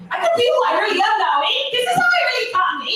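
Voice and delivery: hammed-up Canadian, leaning on every eh; playful Canadian accent parody, eh at the ends; mock Canadian accent. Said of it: "We actually do sound like this".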